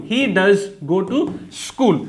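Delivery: very slow, word by word, every word "he does go to school" spaced out; slow dictation. Shown as a demonstration. Teacher dictating the sentence to students, very slow word by word. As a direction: spell it out slowly so students can write. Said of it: "ऐसे translate कर दोगे".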